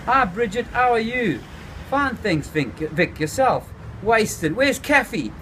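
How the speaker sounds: high, bright stoned greeting; chirpy, a little wasted; Vic's greeting. A narrator's reading. Vic greets Bridget, high and wasted.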